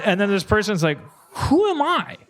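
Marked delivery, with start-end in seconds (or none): 1.3-2.2 high-pitched mock anguish; existential wail. Person left behind by the seal, hammed-up despair. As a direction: cry it out high, in hammed-up crisis.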